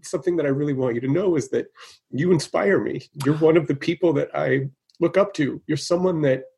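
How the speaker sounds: sincere thanks, welling up a little; a little emotional. Real, not acted. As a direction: speak from the heart, moved but holding together. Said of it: "I'm sorry for getting a little emotional".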